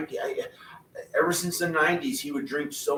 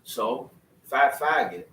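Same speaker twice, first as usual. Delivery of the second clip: lightly voiced cousin impression, slowed down; slow imitation of cousin; slower than usual. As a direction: drag the words out a little like him. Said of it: "he talked like this".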